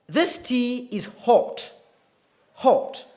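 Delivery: British RP "hot" with a rounded O and no R; slow, careful British demo of "hot"; British accent. Shown as a demonstration. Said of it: "is typical British accent".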